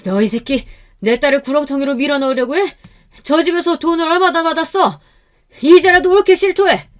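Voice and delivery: high angry interrogation, building to a shout; furious father. A narrator's reading. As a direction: berate a fleeing swindler. Father chases and berates matchmaker.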